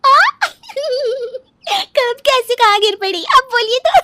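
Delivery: high-pitched uncontrollable giggling through the words; laughing loudly. Acted. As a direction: burst out laughing while asking. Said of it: "जोर जोर से हंसने लगती है". (ज़ोर-ज़ोर से हँसते हुए, ऊँची आवाज़ में)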